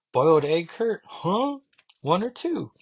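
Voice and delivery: squeaky, high-pitched question to Kurt; a chirpy high host asking about eggs; high voice for Megan. Retold or imitated. Megan asks Kurt about eggs in a high chirpy voice. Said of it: "Megan's asking".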